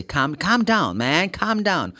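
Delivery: calm down with silent L, kʰʌm down; calm down demo. Shown as a demonstration. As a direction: model calm down for students, no L. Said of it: "So say".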